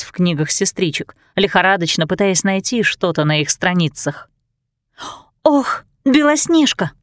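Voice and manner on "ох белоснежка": a high, slow cry of panic; panicked exclamation. A narrator's reading. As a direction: gasp her name in alarm. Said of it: "в панике воскликнула она".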